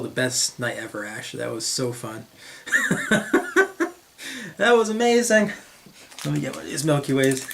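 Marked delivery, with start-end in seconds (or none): 2.7-3.9 high-pitched real giggling fit; laughing. Real, not acted. Cracks up at own story. 4.6-5.5 high-pitched delighted exclamation. Real, not acted. Delighted after laughing at memory.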